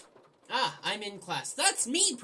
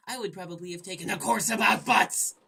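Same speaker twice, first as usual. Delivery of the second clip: louder, gleeful punchline; hammed-up exclamation; 9 dB louder than usual. Gamer reading a silly line from the game narration. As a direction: belt the line for laughs. Butt joke.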